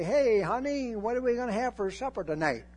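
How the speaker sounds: high, breezy husband call; casual husband. Pretend. Zechariah calling to his wife about supper, lightly high. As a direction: toss it off lightly like a husband at home. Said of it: "He can't even say".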